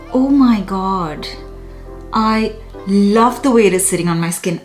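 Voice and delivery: ordinary delivery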